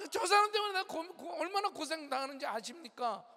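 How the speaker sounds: half-hearted mock angry complaint; imitated angry prayer. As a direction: huff at God about a spouse. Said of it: "막 화내고".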